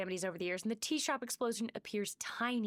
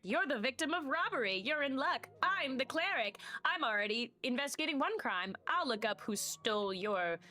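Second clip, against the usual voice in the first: lightly voiced cleric, pitched up in places; eager cleric; 4 semitones higher than usual. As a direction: announce yourself as a slightly higher-voiced cleric.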